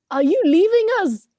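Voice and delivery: a goat stunned at being left; shocked gasp. Acted. Goat realizes being abandoned.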